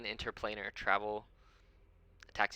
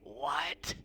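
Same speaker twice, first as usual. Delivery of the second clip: put-on deaf old man's what; 4 dB louder than usual. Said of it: "and he goes".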